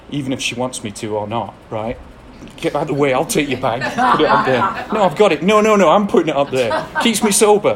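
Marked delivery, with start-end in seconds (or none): 2.6-4.6 loud, pushy, higher, laughing through it; bossy mock shout. Acting himself grabbing woman's bag. 4.9-5.4 mock woman protesting. 5.4-7.7 loud and much higher, laughing as he insists; insistent mock shout. Acting himself insisting on bag.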